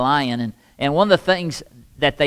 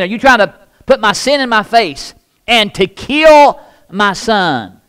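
a raised, mildly accusing cry; accusing widow; 5 semitones higher, 5 dB louder than usual. Acted. Grieving widow accuses Elijah, a raised cry. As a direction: lash out at the prophet in grief. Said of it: "she said".

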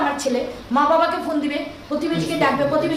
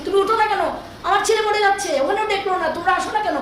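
raised, anguished demand; retold desperate yell; 6 semitones higher than usual. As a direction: shout it like your son is dying. Mother yelling at hospital doctor.

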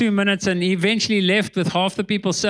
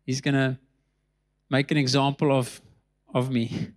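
fading to a hushed, softer voice; quiet dread; 7 semitones lower, 4 dB quieter than usual. Retold or imitated. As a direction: sink lower and quieter as the fear sets in. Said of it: "I get this cold feeling coming through my body".

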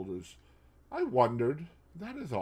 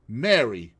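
pleading; 7 dB louder than usual. Acted. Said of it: "glanced at her pleadingly".

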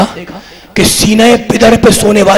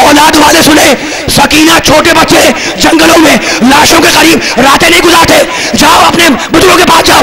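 scolding shout; 5 semitones higher than usual. Acted. Shimr scolds the child, shouting harshly. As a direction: scold the orphan girl to go away. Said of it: "शिमर ने डांटा".

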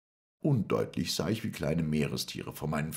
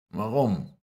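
sharp question; 8 semitones higher, 7 dB louder than usual. Acted. Moreau challenges the man in the water.

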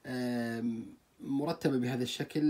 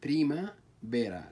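بريمافيرا said slowly, syllable by syllable; split into syllables; 2 semitones higher than usual. Shown as a demonstration. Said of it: "لو سوينا تقسيم له". (بريمافيرا مقسمة ببطء)

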